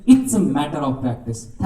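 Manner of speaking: very slow, spaced-out final line; slow emphatic moral. Real, not acted. Speaker ends his talk to the students, slow and deliberate. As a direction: stretch the last words so they stay in the mind. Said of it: "closing moral".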